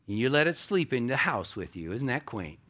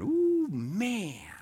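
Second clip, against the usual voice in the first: awed ooh; 7 semitones higher than usual. Real, not acted. Awe at the seed.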